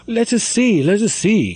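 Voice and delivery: put-on high, eager girls crying out; mock girlish eagerness; lively cry. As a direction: call it out with excitement. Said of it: "cried her lively companions".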